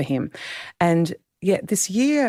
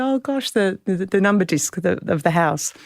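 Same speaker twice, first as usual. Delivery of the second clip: moved surprise; 3 semitones higher than usual. Retold or imitated. Daughter recognising the old house number disc, retold surprise. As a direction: react with wonder, voice lifting then settling.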